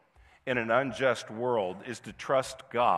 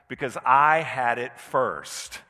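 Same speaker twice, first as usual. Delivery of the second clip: put-on louder, slower childish insistence; toddler protest; 5 dB louder, slower than usual. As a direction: insist like a kid guarding a toy. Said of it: "Oh, the classic".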